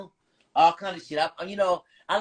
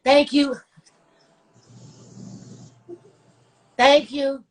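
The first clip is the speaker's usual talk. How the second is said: mock movie dubbing; 6 semitones higher, 6 dB louder than usual. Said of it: "You know them Chinese movies be like".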